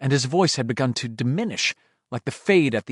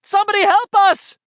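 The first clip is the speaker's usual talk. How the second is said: high, loud, desperate cries; panicked screaming; 6 dB louder than usual. Acted. Richie losing his hold in the dark, screaming for help. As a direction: yell it as the grip gives way. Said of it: "Richie screamed".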